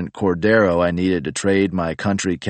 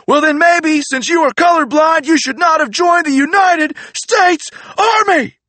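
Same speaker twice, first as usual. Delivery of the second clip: much higher, loud macho yelling; furious macho drill sergeant; 6 dB louder than usual. Retold or imitated. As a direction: scream at the recruit like Randy Savage. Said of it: "losing his fucking mind".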